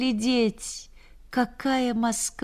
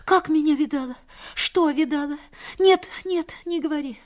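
alarmed; 7 semitones higher than usual. Retold or imitated. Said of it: "Вот она затревожилась".

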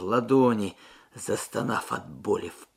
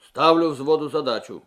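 louder officer's announcement; raised voice; 3 semitones higher, 9 dB louder than usual. A narrator's reading. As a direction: raise your voice to address the platoon. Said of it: "Подполковник повысил голос".

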